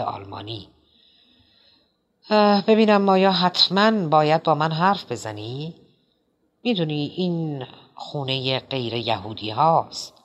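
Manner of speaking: a lightly voiced, fussy, rambling host; a hint of a nervous, chatty Quilty; Quilty's voice. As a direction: play the drugged playwright, talking on and on.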